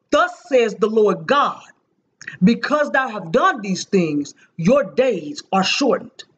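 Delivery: slow, heavy prophetic pronouncement, each word weighed; thunderous prophecy. Retold or imitated. A preacher retelling her vision, slowly pronouncing judgment on a woman. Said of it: "my voice became thunderous".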